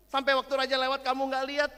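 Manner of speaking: teacher asking if she missed the king; questioning teacher. Acted. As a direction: probe gently but insistently. Teacher questioning crying girl.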